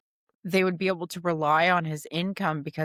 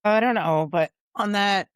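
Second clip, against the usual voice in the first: louder, higher, talking over hiccups; half yelling; 4 semitones higher, 6 dB louder than usual. Real, not acted. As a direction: raise your voice to talk over hiccups. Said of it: "I feel like I'm yelling".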